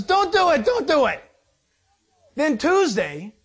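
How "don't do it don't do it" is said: high, loud pleading don't do it; pleading Moses. Retold or imitated. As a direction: beg him to stop, voice up high. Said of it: "Moses says".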